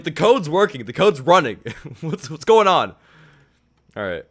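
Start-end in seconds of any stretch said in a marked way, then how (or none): 0.0-3.0 excited disbelief. Retold or imitated. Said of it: "I was like".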